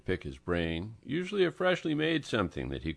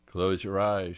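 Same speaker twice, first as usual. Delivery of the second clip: ordering; 4 dB louder than usual. Acted. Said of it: "she ordered".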